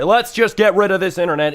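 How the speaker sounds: pretend pressuring dad. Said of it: "I'm gonna say".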